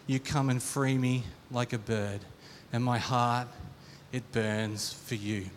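measured, heartfelt poetry-style reading; lyrics read aloud. Acted. Reads song lyrics aloud as verse.

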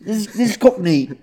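mock Cockney; playful fake Cockney; Cockney accent. Shown as a demonstration. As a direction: put on a London Cockney accent. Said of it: "It's Cockney".

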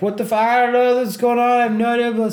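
high, loud panicked protest; mock-panicked yelling; re-enacted panic. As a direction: plead frantically, words tumbling out. Retells panic while being zip tied.

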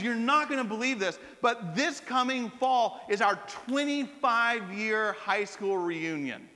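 slow, drawn-out mock reveal; retold big announcement. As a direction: spell out the news with mild ceremony.

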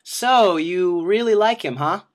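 lightly voiced mother fishing for answers; mom's question. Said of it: "my mom is sort of like".

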